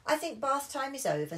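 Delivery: lightly voiced firm dad. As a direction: end bath time firmly. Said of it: "said Daddy Pig".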